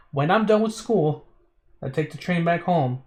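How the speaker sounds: careful slow second read; slow careful reread. Shown as a demonstration. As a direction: read it again slowly to check it. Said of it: "let me slowly reread this".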